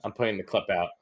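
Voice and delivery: pissed off, muttering while posting; quiet aside. Real, not acted. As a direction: mutter to chat while busy. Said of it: "I'm so pissed".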